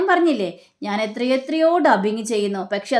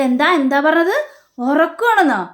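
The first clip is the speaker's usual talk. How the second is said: louder, higher indignant demand; retold outrage; 4 semitones higher, 5 dB louder than usual. Son hears his room is taken and loudly demands why. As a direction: bristle at the news, raising the voice. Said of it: "ഒച്ചപ്പാടുണ്ടാക്കുകയാണ്".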